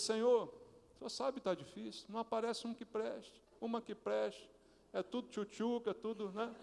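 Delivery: hushed personal prayer; intimate prayer. Shown as a demonstration. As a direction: pray it quietly as if alone with God. Models a prayer for a spouse.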